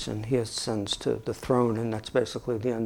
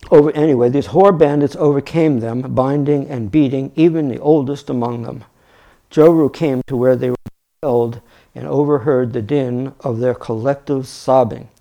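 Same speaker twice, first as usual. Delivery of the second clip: louder, projected storybook reading; story narration; 8 dB louder than usual. A narrator's reading. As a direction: read the tale out with emphasis. Reads the story aloud.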